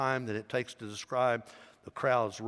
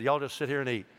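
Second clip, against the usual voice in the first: Southern y'all; faster than usual. Retold or imitated. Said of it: "I'm sure he said "y'all".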